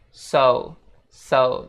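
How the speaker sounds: "so" rounded off into a U, "soh-oo"; careful diphthong on "so"; U glide. Shown as a demonstration. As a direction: close "so" with an OO glide. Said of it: "seolah-olah ada huruf U".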